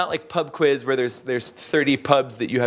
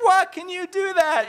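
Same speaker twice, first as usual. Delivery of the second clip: shocked disbelief. Retold or imitated. People amazed the horse speaks.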